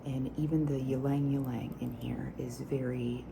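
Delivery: breathy unvoiced whisper, close to mic; whisper with nail taps. ASMR whispered perfume review.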